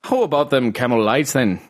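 Irish cadence, vowels half there; attempted Irish accent. Shown as a demonstration. Asking Orion for cigarettes, imperfect Irish accent. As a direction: aim for an Irish lilt. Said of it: "the cadence is no problem".

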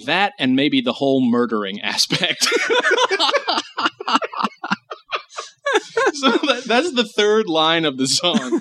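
real laughter breaking through the words; cracking up. Real, not acted. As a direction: try to explain while helplessly laughing. Cracks up at the absurd lyrics.

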